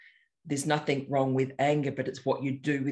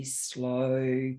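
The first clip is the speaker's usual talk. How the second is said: slow voice; much slower than usual. Shown as a demonstration. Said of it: "Ian's voice that is very".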